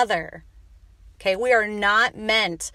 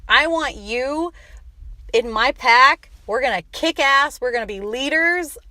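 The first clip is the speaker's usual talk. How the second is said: rising rally cry; 5 semitones higher, 5 dB louder than usual. Real, not acted. Host calling listeners into her pack, building loud.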